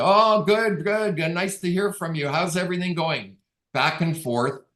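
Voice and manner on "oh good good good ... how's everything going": chirpy client. Retold or imitated. Angie's reply voiced.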